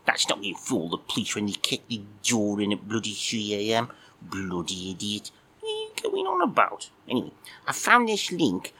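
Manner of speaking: a sleepy, put-out little puppet admiral; cheeky puppet cat. Acted. Puppet cat grumbling at Mike for waking him, squeaky.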